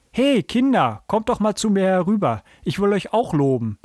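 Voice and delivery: put-on high-pitched grandfather's call to the children; hearty beckoning shout, mildly projected. A narrator's reading. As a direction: call the children over, starting high and easing down. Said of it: "rief uns Franzis Großvater".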